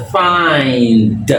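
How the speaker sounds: find drawn out with the vowel as EYE; long I pronunciation. Shown as a demonstration. Teacher shows how I sounds before consonants, drawn-out long I. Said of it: "on doit le prononcer I".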